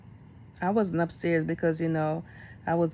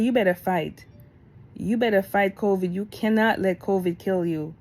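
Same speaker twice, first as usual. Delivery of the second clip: cussing him out; 3 dB louder than usual. Retold or imitated. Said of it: "I cussed him out".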